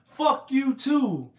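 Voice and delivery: lightly voiced Eddie Murphy again; a hint of Eddie Murphy, slowed; Eddie Murphy impression. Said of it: "Like some Eddie Murphy shit".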